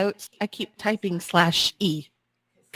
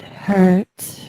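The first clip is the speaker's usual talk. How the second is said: sexy voice; 4 dB louder than usual. Shown as a demonstration. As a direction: purr the words butt hurt. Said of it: "it's very sexy when you say "butt hurt" that way".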